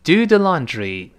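慢慢读 do the laundry 给学生跟读; slow model reading. Shown as a demonstration. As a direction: do the laundry read slowly, word by word. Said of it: "跟老师读一遍". (放慢示范 do the laundry)

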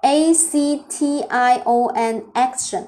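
A C T I O N spelled slowly, then action; slow spelling. Shown as a demonstration. Teacher spells action for students, slowly. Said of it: "对了，非常好啊，action啊".

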